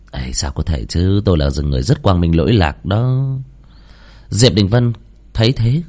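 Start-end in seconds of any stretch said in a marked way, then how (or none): 0.1-3.2 low, casual denial; lightly voiced innocent protest; calm student covering up. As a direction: deny it smoothly, pitched low.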